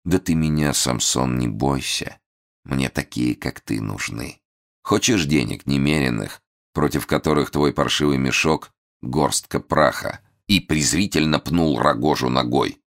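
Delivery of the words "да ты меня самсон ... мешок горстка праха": ingratiating. Acted. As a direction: coax him sweetly. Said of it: "перешёл к вкратчивости".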